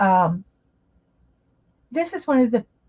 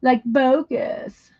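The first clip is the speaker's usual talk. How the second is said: put-on Valley Girl accent; slower than usual. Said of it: "my Valley Girl accent".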